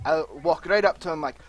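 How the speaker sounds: normal talking voice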